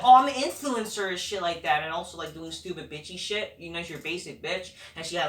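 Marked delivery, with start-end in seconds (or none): 0.0-1.1 mock influencer. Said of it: "she's like".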